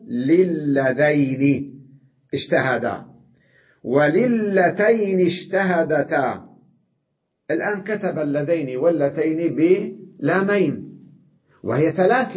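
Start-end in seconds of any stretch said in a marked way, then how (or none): 0.1-6.5 للذين stretched slowly, each lam drawn out; slow teacher's demo; drawn-out demonstration. Shown as a demonstration. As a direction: spell out للذين and وللتين slowly. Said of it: "إذا دخلت عليهن اللام".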